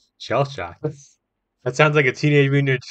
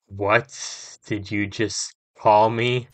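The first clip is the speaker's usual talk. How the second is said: menacing voice; 2 semitones lower, much slower than usual. Acted. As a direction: drag it out menacingly.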